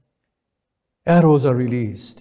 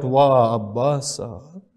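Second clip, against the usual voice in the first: mournful cry; slower than usual. Acted. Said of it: "he cries out".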